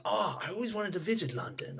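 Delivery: badly faked Canadian accent; attempted Canadian accent. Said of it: "I can't pull off a Canadian accent very well".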